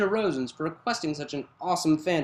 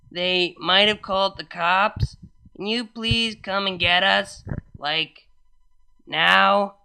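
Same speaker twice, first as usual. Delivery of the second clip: put-on worried drunk voice; 2 semitones higher, 4 dB louder than usual.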